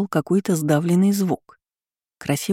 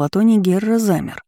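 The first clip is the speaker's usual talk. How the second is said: ordinary delivery, nothing marked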